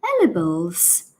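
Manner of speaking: British lady's puzzled "ELL-uh-bulls"; very British accent. Retold or imitated. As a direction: repeat the unknown word in a British accent, questioning. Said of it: "says it with a very British accent".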